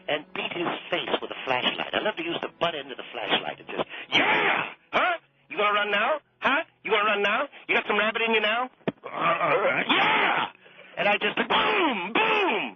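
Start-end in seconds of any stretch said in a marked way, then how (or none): 4.1-11.0 roaring, taunting shouts, higher and louder; violent cop yelling. Retold or imitated. Cop to a fleeing looter, roaring taunts. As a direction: bellow at a running suspect. Reenacting beating a fleeing man.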